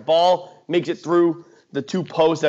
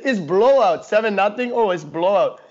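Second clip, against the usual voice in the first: light imitation of an Indian accent; 3 semitones higher than usual. Friend dismissing a football game, imitated in a light Indian accent. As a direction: retell it with a touch of Indian accent. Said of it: "He looks at me in an Indian accent".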